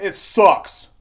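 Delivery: loud, high ranting; worked up. Real, not acted. Ranting to listeners about cheap beer, real loud anger. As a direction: really get heated about bad beer. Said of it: "I get emotional on these fucking topics".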